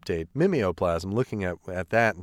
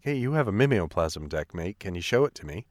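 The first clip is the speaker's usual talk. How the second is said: put-on Australian accent. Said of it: "that was my Australian accent".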